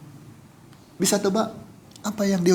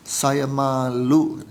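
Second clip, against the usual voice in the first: slow, lower, mildly imitated crying; retold tearful confession; 4 semitones lower, much slower than usual. Victim of the fire meeting Pak Yunus, retold tearful confession. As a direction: draw it out with a touch of tears. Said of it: "sambil nangis dia ji".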